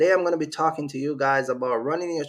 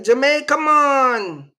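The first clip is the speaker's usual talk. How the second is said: high, louder, amazed echo of Jamaica; mock girl echoing Jamaica; 8 semitones higher, 7 dB louder, much slower than usual. The store girl echoes his answer, high and amazed. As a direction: repeat Jamaica back like the impressed girl. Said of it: "and she like".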